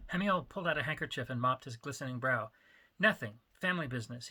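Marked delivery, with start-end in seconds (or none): 3.0-4.3 dismissive. Acted. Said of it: "he dismissed".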